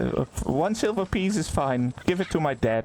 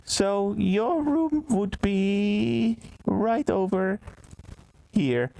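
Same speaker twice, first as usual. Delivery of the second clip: drawn-out barmaid; 5 semitones higher, much slower than usual. Acted.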